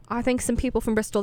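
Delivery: a quick, mock British accent, badly done. Shown as a demonstration. Radio host mocking Bristol band with bad British accent. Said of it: "That's a horrible British accent".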